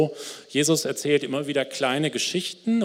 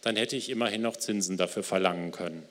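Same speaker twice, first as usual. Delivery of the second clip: ruhiges, getragenes Vorlesen eines Gleichnisses; erzähl die Geschichte langsam und feierlich; Bibellesung. Acted. Liest das Gleichnis vor. (Prediger liest der Gemeinde das Gleichnis vor, getragen)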